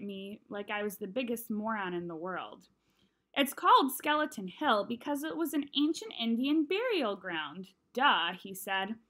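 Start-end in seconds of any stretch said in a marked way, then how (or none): 3.3-8.3 condescending. Acted. Julian mocks Jack as moron.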